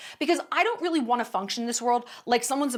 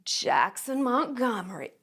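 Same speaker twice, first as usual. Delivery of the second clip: a hint of irritation on the name; mock angry name; slower than usual. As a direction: spit out Jackson Montgomery like you're annoyed. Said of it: "Was it, like".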